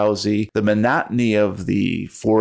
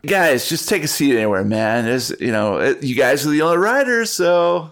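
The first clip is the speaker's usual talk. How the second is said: stoner bus driver voice; 4 semitones higher than usual. Acted.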